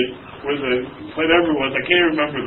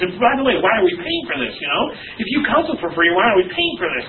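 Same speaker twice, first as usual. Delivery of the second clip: mildly mocking, raised-pitch griping; critical complainer; 6 semitones higher than usual. Pastor retelling a class member's written criticism, mildly mock-indignant. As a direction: lightly imitate a nitpicking complainer. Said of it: "every point she criticized and slammed me".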